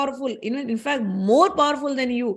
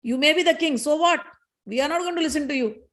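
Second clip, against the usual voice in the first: angry retort; 2 semitones higher than usual. Acted. Fire god Agni defying Indra, mildly angry. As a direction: scoff at the king, mildly heated.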